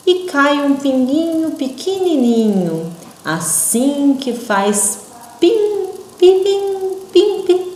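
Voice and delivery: high, slow pim, pim dropping away; slow falling drops. Shown as a demonstration. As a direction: let each pim fall like a tiny drop. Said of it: "bem devagarinho e caindo". (pim pim devagarinho, caindo)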